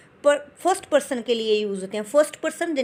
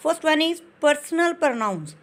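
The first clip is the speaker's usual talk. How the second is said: slow heading read; 3 semitones higher, much slower than usual. Shown as a demonstration. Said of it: "teacher reading heading".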